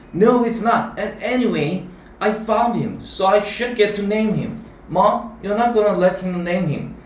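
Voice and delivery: lightly acted boyish protest. A narrator's reading. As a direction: plead your case to Mom like an outraged child. Boy argues, appeals to mom.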